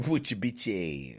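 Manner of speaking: laughing through the repeated line; real amused laughter breaking in; laughing echo. Real, not acted. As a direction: chuckle the words back. Echoes the quote while laughing.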